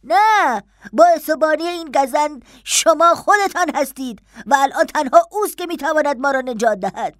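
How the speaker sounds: high, desperate outburst; distressed protest. Acted. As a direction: cry out against the master, then plead. Servant in desperate quarrel with master.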